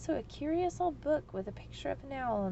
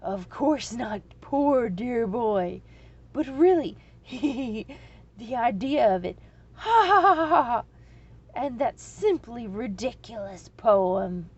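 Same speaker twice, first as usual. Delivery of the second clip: laughing through tears; 10 dB louder than usual. A narrator's reading. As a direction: speak while helpless with laughter. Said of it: "Tears streamed from the dragon's eyes".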